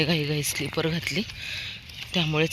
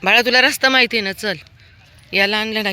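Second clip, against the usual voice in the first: high, quick, louder cooing at the dog; 5 semitones higher, 8 dB louder than usual. Real, not acted. Woman asks her dog Veer if he knows the way, high baby talk.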